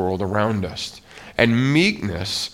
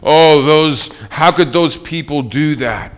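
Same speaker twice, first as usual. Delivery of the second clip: louder, higher burst of indignation, half acted; mock frustrated outburst; 3 semitones higher, 6 dB louder than usual. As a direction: throw up your hands at those people, indignant. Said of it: "I'm angry and I'm frustrated".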